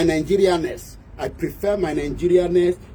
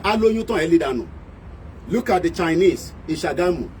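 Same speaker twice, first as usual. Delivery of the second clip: normal talking voice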